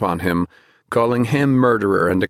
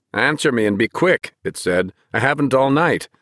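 demanding; 4 semitones higher than usual. Acted. Soldier hammering at the door.

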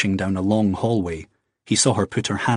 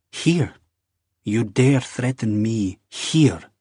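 slow, offended, leaning on dare; how dare you, drawn out; outraged disbelief; much slower than usual. Acted. Wife to Jamie, slow outraged disbelief.

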